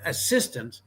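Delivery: "assistant" set apart as the key word; single out "assistant", said deliberately on its own; stress on assistant. Shown as a demonstration. Pundit explaining what the middle word of VAR means, stressing "assistant". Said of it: "emphasis on the middle word".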